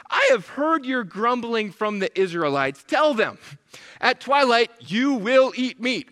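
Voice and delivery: aggravated parent laying down the law; firm, spaced-out words with mounting force; God. Retold or imitated. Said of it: "this aggravated parent response from God".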